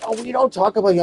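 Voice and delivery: high, loud fake denial; the family denying it, mock high; mock-innocent family. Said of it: "And they're like".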